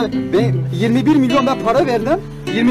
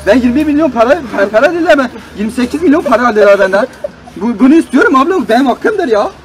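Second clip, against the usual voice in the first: angry complaint; 5 dB louder than usual. Acted. Customer shouts complaint at operator.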